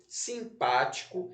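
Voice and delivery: "simpático" read evenly with a rising list tune; word dictation. Shown as a demonstration. Teacher repeats the word list for pupils, "simpático" in careful dictation. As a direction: dictate "simpático", end lifted. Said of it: "vamos lá repetir as palavras".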